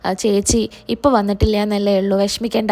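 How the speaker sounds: a hint of comfort for the daughter; mild consoling. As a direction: Sharadamma lightly consoling the tearful Shyama. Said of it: "പറഞ്ഞ് സമാധാനിപ്പിക്കുന്നുണ്ട്".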